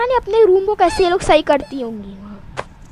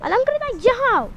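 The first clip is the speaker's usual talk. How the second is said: mother calling her daughter over; mother summons the girl, a mild call; 6 semitones higher than usual. Acted. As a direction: call her name across the house. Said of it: "चिल्ला के बुलाती हैं".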